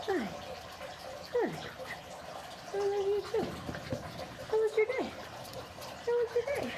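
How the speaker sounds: high soft cooing. Real, not acted. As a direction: coo up high, gently. Cooing at the dog.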